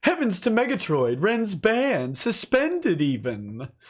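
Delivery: high, weak cartoon voice. Reading out a viewer's chat message as the viewer requested: Snagglepuss voice. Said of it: "It's not the best Snagglepuss".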